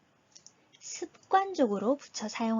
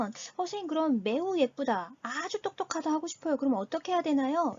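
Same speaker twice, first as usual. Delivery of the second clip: lightly voiced student, pitched up; student asking; 5 semitones higher than usual. Learner asks teacher about saying "very pretty", questioning student voice. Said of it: "라고 물으신다면".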